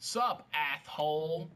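very slow, stretched greeting; mock slow-mo drawl; slow-motion voice. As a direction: drag every syllable out lazily.

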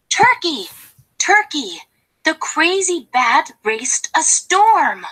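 excited calling. Acted. Goose calls out gossip to turkey.

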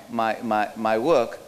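normal talking voice

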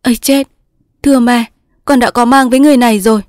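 high, fast, frightened blurting; panicked. Acted. Daughter confessing pregnancy to mother, panicked. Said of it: "Cúc hốt hoảng".

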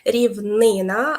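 "рівнина" with stress on НИ; stress on second syllable. Shown as a demonstration. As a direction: stretch the НИ in "рівнина" as the accented syllable. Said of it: "ми наголошуємо".

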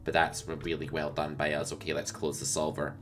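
lightly voiced nerdy solver copier; nerdy solver guy. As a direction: play a smug, nerdy solver fanboy. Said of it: "I'm gonna do an impersonation now of the guy that you don't wanna be".

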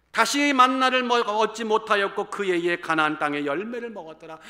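scripture reading. Acted. Reads scripture slowly.

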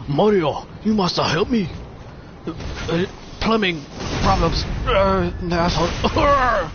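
a hint of a distressed princess begging; Peach impression. Gamer hamming up a princess asking Mario for help, lightly high. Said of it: "That's, that's my Peach impression".

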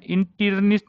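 इंटर्निस्ट mispronounced "in-tir-nist", with "tir" in place of "turn"; wrong pronunciation. Shown as a demonstration. Teacher showing students a mistake, इंटर्निस्ट as "in-tir-nist". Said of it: "नहीं बोलना है".

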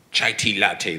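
light mock Australian accent; a playful stab at an Australian accent. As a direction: imitate an Australian server, lightly. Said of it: "that's my Australian accent".

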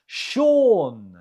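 "Sean" said as SHAWN, one long falling syllable; model pronunciation. Shown as a demonstration. Teacher gives the answer in pronunciation round, "Sean" said as SHAWN. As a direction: pronounce "Sean" clearly as "shawn". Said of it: "How do you say it?".

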